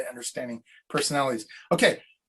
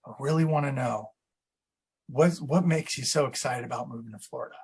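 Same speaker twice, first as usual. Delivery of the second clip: leaning in warmly; 4 semitones lower, 3 dB quieter than usual. Shown as a demonstration. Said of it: "Leaning in and kinda being like".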